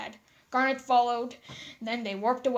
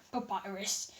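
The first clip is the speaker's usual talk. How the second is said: small chuckle; 5 semitones lower, 9 dB quieter than usual. A narrator's reading. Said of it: "with a small chuckle".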